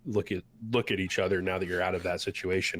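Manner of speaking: normal talking voice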